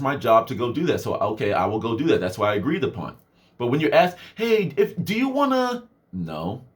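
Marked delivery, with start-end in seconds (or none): 4.3-5.8 mock boss. 6.1-6.6 deadpan no. Retold or imitated. Deadpan refusal.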